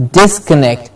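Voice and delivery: "disconnect" with weight on DIS; falling "disconnect", strong opening DIS; stress on DIS. Shown as a demonstration. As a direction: say "disconnect" hitting the first syllable. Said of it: "Dis gets the stress".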